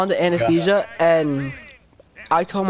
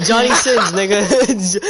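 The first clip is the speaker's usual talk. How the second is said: louder, laughing as the name lands; laughing reveal; 3 semitones higher, 5 dB louder, slower than usual. Real, not acted. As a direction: blurt the name out through a laugh. Naming the porn star, laughing.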